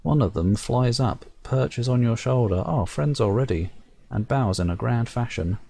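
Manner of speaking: measured storyteller reading the game text; story narration. A narrator's reading. Reading the game's narration aloud to viewers, storyteller voice. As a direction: narrate it like a fairy tale.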